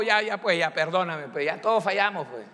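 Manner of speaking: careless, brushing-off sorry; offhand apology. Retold or imitated. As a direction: toss off a lazy apology. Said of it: "Porque a veces pedimos perdón así".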